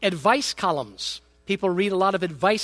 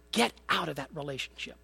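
blunt advice; 4 semitones lower, 9 dB quieter than usual. Retold or imitated. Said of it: "what she should say is".

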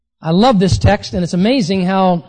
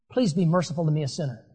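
humble plea; 5 semitones lower, 9 dB quieter, faster than usual. Retold or imitated. Imagined humble plea to Jesus.

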